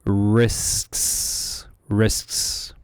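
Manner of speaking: risks with crisp loud s sounds; enunciated risks. Shown as a demonstration. Teacher repeating risks for students, crisp hissed ending. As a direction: clip the final s of risks hard. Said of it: "let's focus on it one more time".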